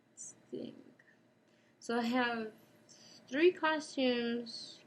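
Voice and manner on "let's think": unvoiced murmur to herself; thinking to self. Real, not acted. Musing aloud.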